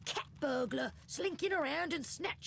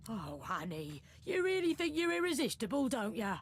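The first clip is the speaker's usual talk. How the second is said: mocking condescension; 6 dB quieter than usual. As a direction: tease him like he's a fool. Thief mocks the player's flirting.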